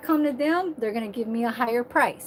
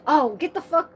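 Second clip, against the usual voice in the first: higher, louder mock dismissal; imitated attitude; 4 semitones higher, 5 dB louder than usual. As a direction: imitate someone telling you off. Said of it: "That's the attitude that you have".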